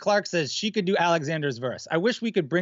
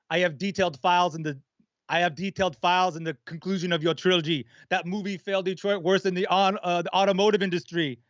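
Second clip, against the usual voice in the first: Terminator. Acted. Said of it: "Lloyd, can you do Terminator?".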